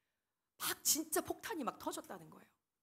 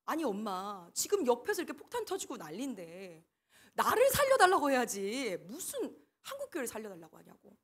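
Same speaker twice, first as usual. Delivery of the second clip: put-on child protesting; 4 dB louder than usual. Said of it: "막 따졌다는 거예요".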